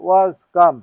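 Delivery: was come said very slowly and deliberately; slowly worked-out was come; slow demonstration. Shown as a demonstration. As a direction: spell out the form slowly for the student. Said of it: "কাম, কেম, কাম".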